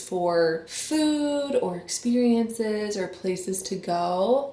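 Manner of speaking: talking while applying mascara; slowed, distracted, mascara in hand. Real, not acted. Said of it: "I'm still talking to you while doing my mascara".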